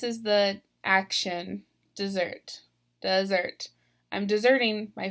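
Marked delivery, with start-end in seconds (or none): 1.9-3.7 "dessert" stressed on the second syllable, duh-ZERT; verb stress. Shown as a demonstration. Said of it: "I'm stressing this last syllable".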